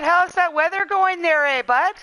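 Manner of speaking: put-on light Canadian accent with a tagged-on eh, bud; a hint of Canadian accent; mock Canadian. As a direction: play up a Canadian accent for laughs. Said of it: "So I don't normally talk very Canadian".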